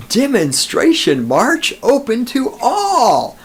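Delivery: high, slow mocking proclamation with a laugh; all caps. Shown as a demonstration. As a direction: announce it like all capital letters, laughing. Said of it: "in all capital letters".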